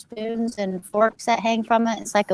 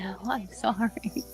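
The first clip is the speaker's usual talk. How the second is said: apologetic; 9 dB quieter than usual. Retold or imitated. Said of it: "And I said".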